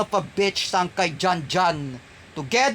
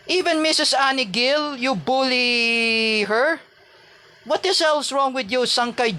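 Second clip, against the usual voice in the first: raised, indignant accusation; angry; 5 semitones higher than usual. Real, not acted. Defending Missus Annie Gill from a bully, indignant. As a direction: call him out, voice pitched up in outrage. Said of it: "I'm very angry".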